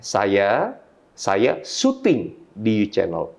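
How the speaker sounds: "syuting" stretched out slowly, set apart by pauses; slow right down and lean on "syuting"; stress on SYUTING. Shown as a demonstration. Trainer demonstrating dynamic intonation, stress on "syuting". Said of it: "sayanya syutingnya atau U Channelnya".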